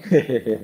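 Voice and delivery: short imitated chuckle. Husband answers his laughing wife, short chuckle. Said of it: "Aku muni".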